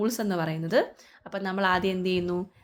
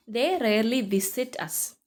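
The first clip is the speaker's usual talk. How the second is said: slow reading; 3 semitones higher, much slower than usual. Shown as a demonstration. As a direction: read out word by word, very slowly. Teacher rereads question slowly. (പതുക്കെ ചോദ്യം വായിച്ച്)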